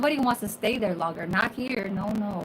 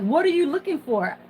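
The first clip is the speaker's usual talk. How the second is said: brisk, higher-pitched rude question; 5 semitones higher, faster than usual. Retold or imitated. Coworker confronting her in the pantry, imitated rudely. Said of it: "she said it so fucking rude".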